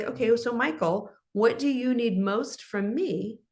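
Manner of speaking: patient supportive tone; gentle calm question. Shown as a demonstration. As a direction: offer help without pushing. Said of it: "So then I would be like".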